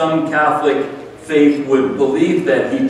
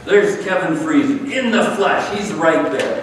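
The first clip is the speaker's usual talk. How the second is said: mock surprised greeting; 5 semitones higher than usual. Someone greets a friend entering the room, delighted. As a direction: greet a friend who just walked in. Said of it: "Somebody walks into the room and go".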